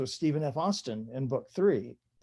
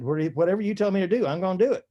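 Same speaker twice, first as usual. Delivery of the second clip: mock Texas accent; 5 semitones higher, 4 dB louder, much faster than usual. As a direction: play the eager Texan, a bit louder. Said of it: "I put on my very best Texas accent".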